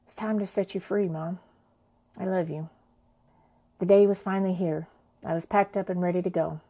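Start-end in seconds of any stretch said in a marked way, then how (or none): 0.0-2.7 softer, tearful murmur to Mom; soft whisper to the room. Real, not acted. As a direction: say it barely above a breath, to her mother's ashes. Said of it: "whispered to the room".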